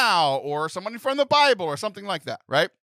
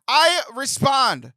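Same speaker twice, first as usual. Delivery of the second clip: high, slow near-shout of glee; giddy, gushing; excited; 11 semitones higher, 6 dB louder than usual. Real, not acted. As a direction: overflow with delight at the news. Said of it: "I'm so excited".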